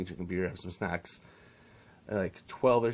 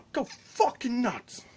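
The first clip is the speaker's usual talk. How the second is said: high, slow mocking dad; slower than usual. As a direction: drag it out like the dad. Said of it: "the dad is like".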